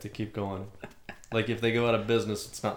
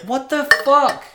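stunned clerk, drawn out; high, loud, slow mock outrage; 8 dB louder, slower than usual. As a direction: cry it out, baffled. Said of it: "this Walgreens is like".

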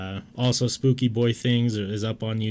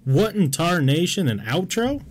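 put-on old prospector; 6 semitones higher than usual. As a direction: exclaim like a crusty Wild West miner. Cowboy exclamation at the outro.

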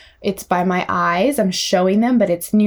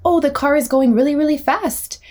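put-on higher-pitched chatter to a child; play-by-play for a little one, higher; wordy play talk; 6 semitones higher than usual. Shown as a demonstration. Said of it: "instead of maybe saying".

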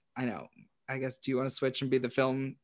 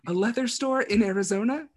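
incredulous higher-pitched quote; mock disbelief, pitched up; Dennis; 7 semitones higher than usual. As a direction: scoff at the plan in a higher voice. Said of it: "Dennis is like".

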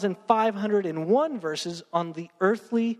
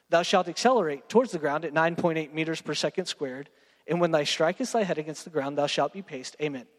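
mock King James voice. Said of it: "what he's saying is".

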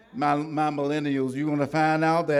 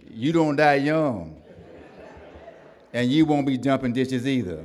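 laughing daddy quote; 5 dB louder than usual. Retold or imitated. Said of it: "He said".

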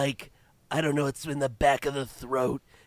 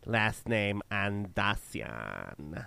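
vocal fry; 2 semitones lower, 4 dB quieter, much slower than usual. Acted. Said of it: "The most vocal fry".

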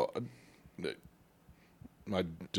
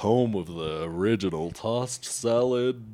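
ad voice; slower than usual. Pretend. Mock Domino's slogan.

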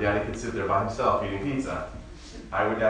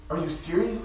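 mock disbelief; 6 semitones higher than usual. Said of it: "he's going".

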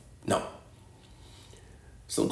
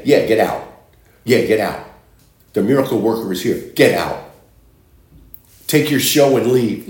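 scornful, louder brush-off; mocking dismissal; 4 dB louder than usual. Mourners scoff and order the miracle worker out, scornful. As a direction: sneer them out the door.

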